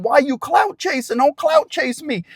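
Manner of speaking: high, slow accusing yell; retold yell. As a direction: drag it out at the cameraman. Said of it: "she yells at him".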